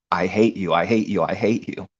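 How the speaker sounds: loud, hammered "I hate you" at a steady pitch; translated hatred. Retold or imitated. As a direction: spell out the hatred behind the words. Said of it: "translation, one eighty, flipped".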